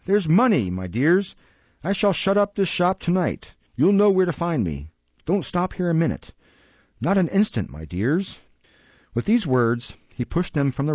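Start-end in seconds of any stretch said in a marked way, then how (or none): 0.0-8.4 put-on high, wheedling old schemer in a hurry; anxious old fence urging his gang; old Jew, agitated. A narrator's reading. Narrator voices the Jew.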